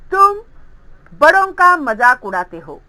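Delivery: ordinary delivery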